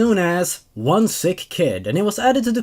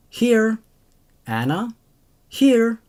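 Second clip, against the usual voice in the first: put-on higher little-kid voice; child answering; 4 semitones higher, slower than usual. Children answering the teacher's roll call, high and small. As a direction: chirp back like a kindergartner.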